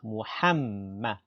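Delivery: Muhammadan with a long held mm; doubled mim. Shown as a demonstration. Teacher explaining the tashdid, Muhammadan with doubled m. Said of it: "Il y a un tashdid sur le mim".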